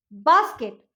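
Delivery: बास्केट said as one word with a plain ब; correct sound. Shown as a demonstration. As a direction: say "बास्केट" starting with ब. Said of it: "next है देखिए बास्केट". ("बास्केट" ब की आवाज़ से)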